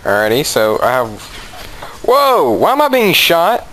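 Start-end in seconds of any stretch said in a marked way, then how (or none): 2.0-3.7 high, slow alarmed question; startled outcry. Real, not acted. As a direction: react with startled confusion. Surprised by gunfire in game.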